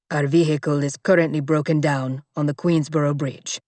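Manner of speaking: low, clipped report; grim bodyguard. Acted. Bodyguard reporting the stranded car, low and grim. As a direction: report the facts without emotion.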